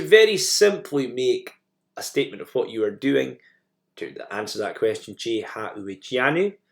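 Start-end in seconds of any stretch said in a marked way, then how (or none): 5.1-6.6 "Jehu Gianu" drawn out slowly, rising at the end; Gaelic model phrase, slow. Shown as a demonstration. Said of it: "you can just say".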